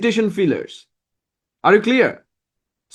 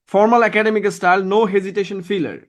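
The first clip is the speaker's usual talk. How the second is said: slow emphatic rule; much slower than usual. Real, not acted. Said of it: "slow stated rule".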